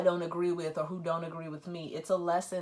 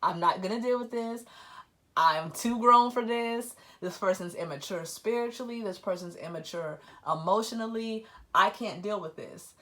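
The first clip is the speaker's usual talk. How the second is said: louder, emphatic dismissal of him; fed up; 2 semitones higher, 5 dB louder than usual. Retold or imitated. Quoting herself rejecting the immature person, loud and fed up. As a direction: brush him off, done with it. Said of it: "I'm like".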